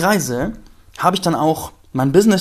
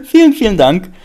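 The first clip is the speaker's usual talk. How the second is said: heartfelt thanks; 5 semitones higher, 9 dB louder than usual. Real, not acted. Thanking Vreni.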